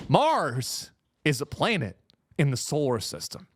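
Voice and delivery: patronizing, with weighty pauses; condescending explainer. Real, not acted. Explaining basics to the guys.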